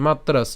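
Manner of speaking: "মাত্রাস" closed firmly on a final s; ending on s. Shown as a demonstration. Teacher showing where to stop, "মাত্রাস" ended on s. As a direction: say "মাত্রাস", stopping right on the s. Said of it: "হর্ষ চিহ্ন পর্যন্ত উচ্চারণ করছি".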